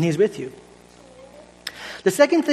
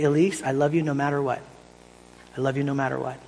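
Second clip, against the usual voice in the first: tender; 4 semitones lower, 5 dB quieter than usual. Retold or imitated. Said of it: "I say it in a very particular way".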